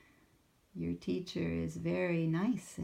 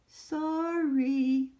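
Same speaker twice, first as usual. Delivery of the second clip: sheepish Sammy; 8 semitones higher, 8 dB louder than usual. Acted. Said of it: "blushed Sammy".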